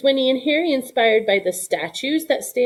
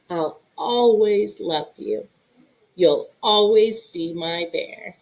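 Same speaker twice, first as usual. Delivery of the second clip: slow, tender goodbye; tender farewell; slower than usual. Acted. Harry saying goodbye to his bear, slow and tender.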